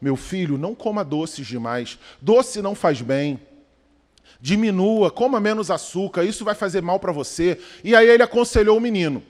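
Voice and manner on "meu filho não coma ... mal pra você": put-on wise old man. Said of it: "o sábio ... falou assim".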